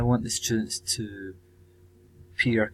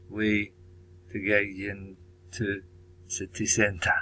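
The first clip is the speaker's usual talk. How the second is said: slow, careful English in a light Chinese accent; 2 semitones lower, 6 dB quieter than usual. Shown as a demonstration. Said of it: "sorry about my bad, uh, Chinese accent".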